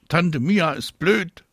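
high, slow, sulky call. A narrator's reading. Marie refuses the visit to her aunt, calling out. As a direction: shout back like a balking child. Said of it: "ruft Marie".

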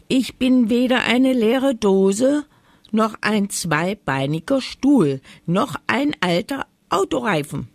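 high, loud, outraged protest; indignant. A narrator's reading. Forgotten dog rejects being compared to junk, indignant. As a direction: protest each item in indignation. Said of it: "empörte sich Mori".

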